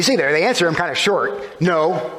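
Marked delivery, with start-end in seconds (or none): 1.6-2.1 a clipped, mildly annoyed no; curt annoyed no. Retold or imitated. Tired fishermen answering the stranger, curt and mildly annoyed. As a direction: toss back a short mild no. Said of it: "a very short, curt, probably annoyed answer".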